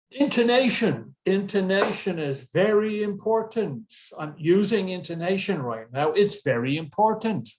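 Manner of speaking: exaggerated rise and fall on "intonation" and "very important"; "intonation" pitched high and swooping for emphasis; emphatic intonation. Shown as a demonstration. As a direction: punch "very important" with sweeping pitch. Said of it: "So I'm emphasizing this".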